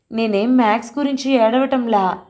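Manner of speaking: put-on a touch of a hurt boy snapping back; indignant cry. Grandson protesting to grandmother, a mild indignant outburst. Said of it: "ఉక్రోషంగా అరిచినట్లన్నాడు".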